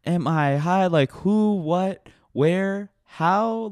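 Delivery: spaced-out questions, one word at a time; dumb stoner talk. Acted. Badly written stoner answering his friend, mock-dazed. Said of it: "stoner talk that's written by people that clearly, like, are not stoners".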